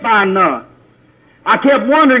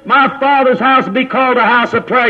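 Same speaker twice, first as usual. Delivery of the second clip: preaching at full force, raised; fiery preaching; 2 semitones higher than usual. Acted. Preacher to his congregation, fiery preaching. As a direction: drive the sermon home with fire.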